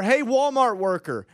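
stretched attention-getting call, not shouted; mock calling out. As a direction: call over a store worker. Acting a customer calling staff.

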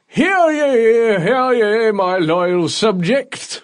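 high, loud royal proclamation; town crier. Pretend. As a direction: Hear ye called out like a herald. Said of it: "look at my subjects and go".

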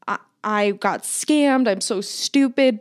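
slow, mildly distraught retelling; lightly acted upset, without real tears; retold tearful. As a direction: imitate a tearful mom, drawing the words out. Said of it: "in tears".

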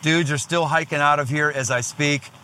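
talking around a tobacco chew; words shaped by a chew in the cheek. Real, not acted. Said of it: "with a chew in my mouth".

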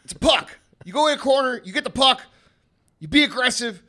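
loud, high, punchy commands of a father; dad's pep talk. Retold or imitated. Dad drilling his kids before soccer, forceful pep talk. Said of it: "give us this pep talk".

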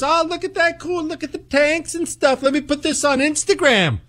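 high-pitched gushing sightseer voice; naive snap-happy tourist. Acted. Imagined tourist at a Soviet military base, mock naive gushing.

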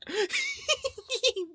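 high, sudden laugh; burst of laughter. Real, not acted. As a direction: break out laughing.

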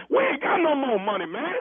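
shouting it out, fed up; hollering at the funeral home clerk; angry shout. Acted. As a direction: yell that the money's gone. Angry customer arguing over tombstone.

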